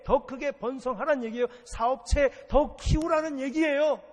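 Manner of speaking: high-pitched pulpit exhortation; rousing preaching. Real, not acted. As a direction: press each command on the congregation. Preaches at full force.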